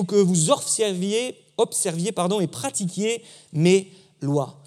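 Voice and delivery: firm, measured proclamation of the verse; solemn scripture reading. Acted. Preacher reading Ezekiel to the congregation, solemn proclamation. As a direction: declaim God's promise with weight.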